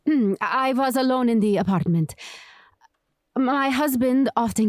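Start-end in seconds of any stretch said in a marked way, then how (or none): 0.1-2.1 the witness repeating herself after being told to speak up. Acted. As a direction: lift the voice so the jury hears. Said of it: "Speak up, please".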